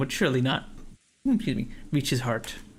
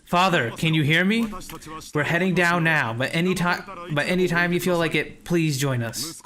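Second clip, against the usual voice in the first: raised voice calling to father; shouting; 3 semitones higher than usual. Acted.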